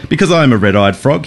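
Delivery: mock frog croak. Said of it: "he croaked".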